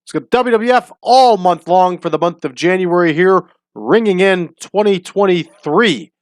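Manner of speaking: big podcast host welcome, punched key words; show intro. Acted.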